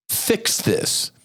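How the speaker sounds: high, breathy mock plea to a leader; mock demand. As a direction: squeak out the demand mockingly.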